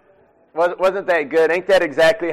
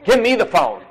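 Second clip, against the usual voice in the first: higher, insistent demand for the phone; mock bossy wife, pitched up; pushy wife grabbing the phone; 4 semitones higher than usual. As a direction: play the wife who takes over the call. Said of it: "some of your wives are like".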